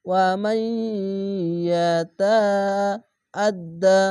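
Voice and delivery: slow recitation of the word; drawn-out recitation. Shown as a demonstration. Teacher reciting the word slowly for the students. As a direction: hold the syllables like reciting. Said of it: "ইদগামে বা গুন্না".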